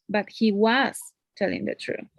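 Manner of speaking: WAS held out, then a short break; stress on WAS. Shown as a demonstration. Teacher insisting Nick told the truth, stress on was. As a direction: lean firmly on was. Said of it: "So I'm speaking a little bit louder".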